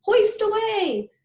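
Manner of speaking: high, loud, slow cheer; excited boy shouting to dad; gleeful cry. A narrator's reading. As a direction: call it out like a kid on a ride. Kid hanging on dad's arm.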